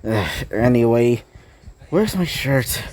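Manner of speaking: low, sluggish just-woke-up voice; groggy grumbling. A narrator's reading. Just-woken Izuku grumbles, nonchalant.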